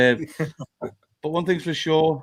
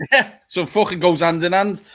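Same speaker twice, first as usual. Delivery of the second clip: laughing; 5 semitones higher, 5 dB louder than usual. Real, not acted. Laughs at mate's joke.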